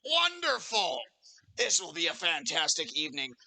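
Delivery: big, high burst of delight, then settling; delighted innkeeper. Acted. Barkeep pleased with the gold, delighted innkeeper. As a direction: exclaim like a pleased host.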